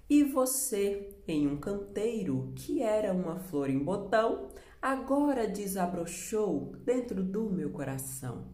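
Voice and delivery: measured poem recital, lifted opening; poem reading. Acted. Teacher reads a poem stanza to pupils, measured recital. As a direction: read the stanza out with care.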